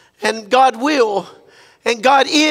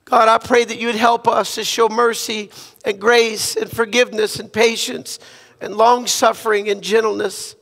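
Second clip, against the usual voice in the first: earnest prayer. Acted. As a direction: pray for the church with humble sincerity. Leads a prayer.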